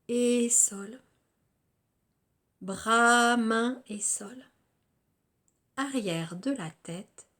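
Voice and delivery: measured yoga nidra guidance with long pauses between phrases; guided relaxation. Acted. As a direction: guide them through body and senses, phrase by phrase.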